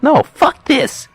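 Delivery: Joe Pesci impression. Tommy refusing before shooting, slow high mock snarl. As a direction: drag it out like a hammed-up hood. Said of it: "Joe Pesci's like".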